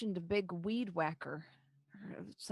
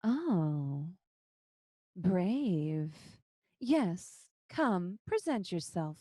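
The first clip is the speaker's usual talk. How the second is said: a hint of a silky spider lady; lightly voiced, smooth coaxing creature; much slower than usual. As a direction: spider lady luring the brave hero in, silky. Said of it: "in that same silky voice".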